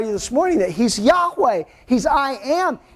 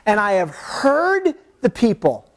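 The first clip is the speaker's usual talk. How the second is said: voice of God; slower than usual. Acted. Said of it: "he says".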